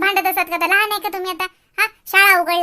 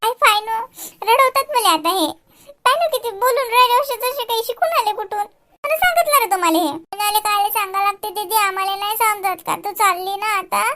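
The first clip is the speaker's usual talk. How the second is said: mock tearful; 4 semitones higher than usual. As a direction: pretend to well up at the kids' words. Sister moved, half crying.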